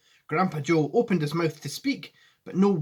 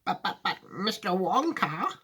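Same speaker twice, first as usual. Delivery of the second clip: put-on lightly raised, halting old man; stammering; 5 semitones higher than usual. Grandpa Joe stammering at Wonka, lightly raised. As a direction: trip over the words. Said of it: "stammered Grandpa Joe".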